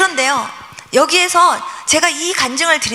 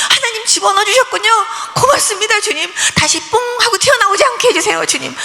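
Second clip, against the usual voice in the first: joyful thanks; 7 semitones higher than usual. Retold or imitated. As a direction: thank God with rising joy. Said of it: "이러고 제가 기도를 했어요". (높고 들뜬 감사 기도)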